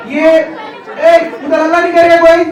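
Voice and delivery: calling out to hush. Real, not acted. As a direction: break off the speech to hush the crowd, then laugh. Telling noisy children to hush.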